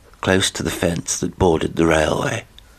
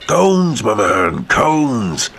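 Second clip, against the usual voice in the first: emphatic; 4 semitones higher, 4 dB louder, much slower than usual. Acted. Horrocks insisting on cones.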